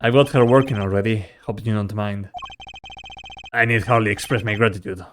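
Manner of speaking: subdued, low-key character dialogue; quiet, restrained dramatic reading; lightly voiced grave rivals. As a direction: hold it back, measured and serious. Voices game dialogue of old rivals.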